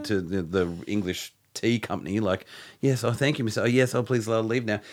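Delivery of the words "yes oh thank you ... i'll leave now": mock servant. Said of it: "bowing like some kind of servant".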